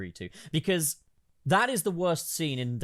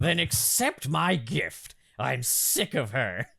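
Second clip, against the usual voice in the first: Joker voice; slower than usual. Acted. Voicing the Joker.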